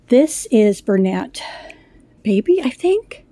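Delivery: breathless, catching air between words; out of breath. Real, not acted. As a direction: speak short of breath. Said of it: "Sorry, I'm out of breath".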